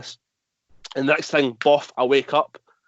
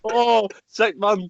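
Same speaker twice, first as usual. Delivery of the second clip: sarcastic; 7 semitones higher, much slower than usual. Real, not acted. Mock praise, laughing.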